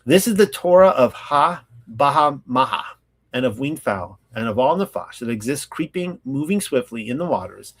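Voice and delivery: measured, formal reading aloud; solemn recital of ancient law; scripture reading. Real, not acted. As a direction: read out the law, phrase by phrase.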